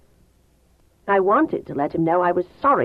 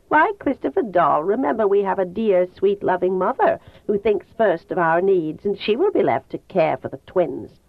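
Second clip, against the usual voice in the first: imitating mother bitterly. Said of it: "like she talks sometimes".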